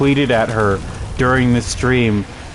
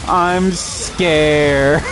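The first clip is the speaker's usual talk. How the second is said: small, higher mock-timid voice; imitating scared girlfriend; 5 semitones higher than usual. Retelling the girlfriend's fear, in a higher mock voice. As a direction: play her as nervous and pleading. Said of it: "And he's like".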